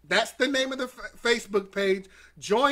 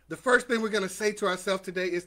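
normal talking voice

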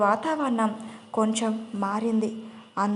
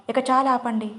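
a slightly raised, firm call to stop; mild shout; 2 semitones higher, 4 dB louder than usual. Acted. Renu cutting into the family quarrel, a mildly raised shout. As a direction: raise the voice a little to end the fight. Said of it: "అని కొంచెం గట్టిగా అరిచింది రేణు".

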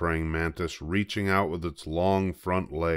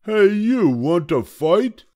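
high, loud, grumpy little bug; a tiny bug spoiling for a fight, high and loud; grouchy ladybug; 14 semitones higher, 8 dB louder, slower than usual. A narrator's reading. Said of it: "the grouchy ladybug said".

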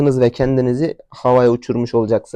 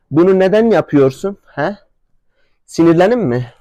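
higher-pitched, insistent telling-off; exasperated scolding; 6 semitones higher than usual. Real, not acted. Owner questioning his misbehaving horse, exasperated. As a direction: demand an answer from a naughty animal. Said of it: "Ben de delleneceğim sonunda".

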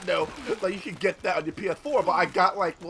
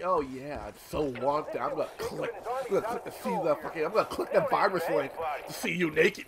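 lightly voiced gullible guy, low and softer; mock gullible clicker; 4 semitones lower, 4 dB quieter than usual. Imagined victim falling for a scam profile, mock gullible. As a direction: play someone naively taken in, voice dropped.

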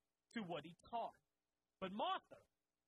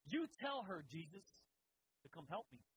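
bossy attitude; 3 semitones lower than usual. Retold or imitated. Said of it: "Martha had this attitude".

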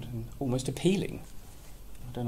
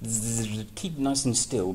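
buzzing flies; 2 semitones higher, slower than usual. Acted. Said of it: "buzzed the flies".

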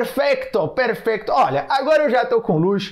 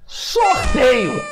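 shouting; 2 semitones higher, 3 dB louder than usual. Acted. Hyping a giveaway to the audience.

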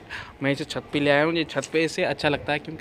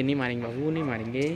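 soothing; 3 semitones lower, 6 dB quieter, faster than usual. Real, not acted. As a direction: hush her gently. Soothing baby. (बच्ची को प्यार से शांत करते हुए)

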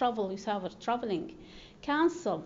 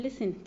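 listen said LISten; strong LIS, weak en in listen; stress on first syllable. Shown as a demonstration. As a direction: lean on the front of listen. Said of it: "تشديد على المقطع الأول".

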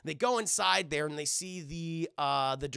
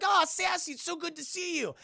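gushing greeting; 12 semitones higher than usual. Acted. Character greets injured friend.

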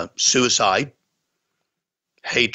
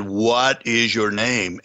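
firm; much slower than usual. Retold or imitated. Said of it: "got firm and I said".

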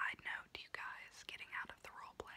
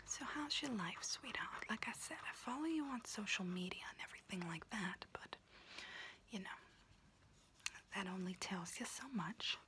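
whispering auntie roleplay; 3 semitones higher than usual. Acted. Auntie whispering to her niece while doing her nails, in a confiding unvoiced whisper. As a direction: whisper close and chatty like a kooky aunt doing your nails.

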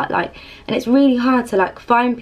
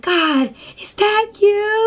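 higher, slowed wonder; inner awe; 10 semitones higher, slower than usual. Retold or imitated. Her inner question to God at the fire, lightly raised awed voice. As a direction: ask God in your head, hushed in amazement. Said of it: "In my head, I'm like".

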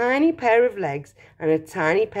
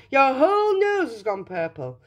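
mild shout; 7 semitones higher than usual. A narrator's reading. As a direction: call out as an alarmed father. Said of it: "shouted Mister Beauregard".

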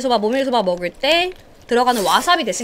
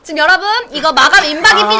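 higher, louder hard-sell infomercial pitch; home shopping host; 5 semitones higher, 5 dB louder than usual. Pretend. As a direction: push it like a TV shopping host closing a sale. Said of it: "홈쇼핑처럼".

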